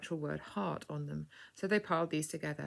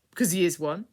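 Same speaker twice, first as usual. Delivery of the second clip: obstreperous; 2 semitones higher, 7 dB louder than usual. A narrator's reading. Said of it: "said the young man obstreperously".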